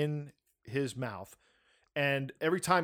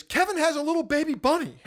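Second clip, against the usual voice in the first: high, louder call of the news; retold yell; 12 semitones higher, 4 dB louder than usual. Wife yelling from the other room, raised and high. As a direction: call it out across the house, raised. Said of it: "yells at me".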